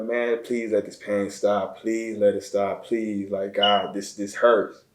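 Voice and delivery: imitated plea, slow and mounting; retold desperate prayer. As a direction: beg God for relief, a touch strained. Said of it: "I'm praying".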